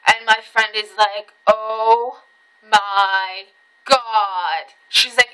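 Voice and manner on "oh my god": retold stunned disbelief. Friend stunned after narrow escape.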